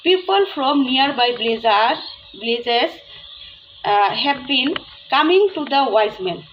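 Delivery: slow, careful reading of a story line; story read aloud. Shown as a demonstration. Teacher to students, reading the story sentence slowly. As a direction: read it slowly so the class can follow.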